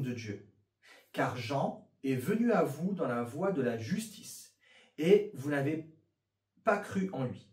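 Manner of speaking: steady reading aloud; scripture reading. Acted. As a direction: read the verses to the group. Reads Bible passage aloud.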